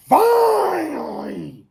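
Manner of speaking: long, high-pitched drawn-out cheer; elated cry. Real, not acted. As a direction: stretch it out high, sliding down in relief. Celebrates baseball's long-awaited return.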